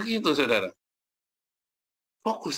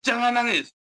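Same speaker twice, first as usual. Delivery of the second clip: high-pitched retold parental yell; imitated scolding, raised in pitch; 10 semitones higher than usual. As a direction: act out ordering a child to stop crying. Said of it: "kalau saya teriak".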